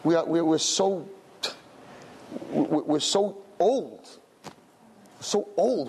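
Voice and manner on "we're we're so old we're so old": put-on weary old. Mocking how weary adults sound.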